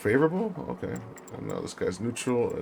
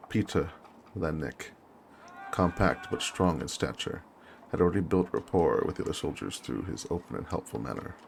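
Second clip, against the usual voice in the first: measured war-diary reading; story narration; 2 semitones lower than usual. Acted. Officer recounts arriving at the trenches, measured narration. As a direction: read it as a deliberate journal entry.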